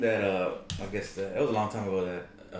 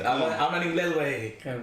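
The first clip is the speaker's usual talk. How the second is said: mock voice; 2 semitones higher than usual. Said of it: "this guy talking".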